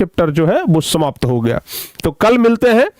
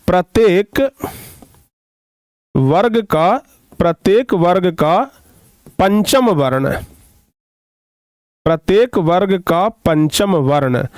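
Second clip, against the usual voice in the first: measured, word-group by word-group dictation; dictation pace. Real, not acted. Teacher dictating a line for students to write, measured dictation. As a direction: dictate in short chunks with long pauses.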